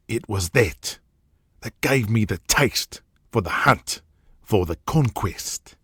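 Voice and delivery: rough Australian boss boasting about his past; Australian tycoon bragging to his underling about hunting; brash Aussie hunter. Acted. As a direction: swagger through the outback tale, Australian. Jack continues his story.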